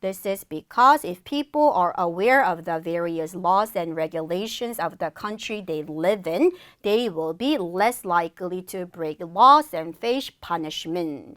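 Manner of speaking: slow, measured English model reading. Shown as a demonstration. Teacher demonstrates an answer for students, slow model reading. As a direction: read it out clearly for learners to follow. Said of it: "설명 내용 다시 해볼게요".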